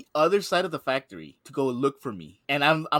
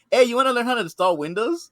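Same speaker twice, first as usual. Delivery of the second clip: laughing; 9 semitones higher, 7 dB louder than usual. Retold or imitated. Manager quoted, speaker laughing.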